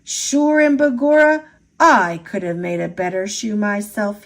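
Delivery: put-on a proud old Irish cobbler sniffing at a poor shoe; mild Irish cobbler grumble; Irish brogue. O'Leary's scornful Irish quote.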